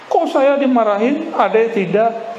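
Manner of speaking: put-on jealous older brother. Preacher voicing a jealous older son protesting, mock whiny. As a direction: complain like a kid who got scolded unfairly.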